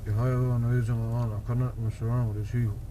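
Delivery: talking with clenched teeth; through gritted teeth. Real, not acted. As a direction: lips barely moving, jaw held shut. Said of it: "spilling the beans through gritted teeth".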